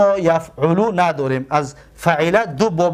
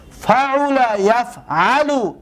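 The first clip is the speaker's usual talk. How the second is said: slow pattern drill; 3 semitones higher, much slower than usual. Shown as a demonstration. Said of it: "teacher pronounces the pattern".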